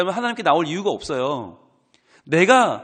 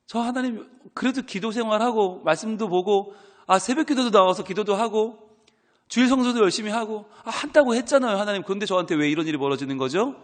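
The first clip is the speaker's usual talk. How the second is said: Job's complaint; 4 semitones higher than usual. Acted. Pastor voicing Job protesting to God, rising plea. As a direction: argue with God like a wronged believer.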